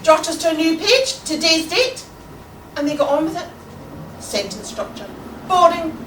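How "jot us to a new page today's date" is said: brisk teacher. Acted. Teacher resumes class after shock.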